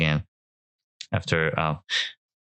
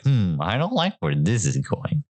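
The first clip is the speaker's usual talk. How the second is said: uneasy mock reaction; 3 semitones higher than usual. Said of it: "She looked like".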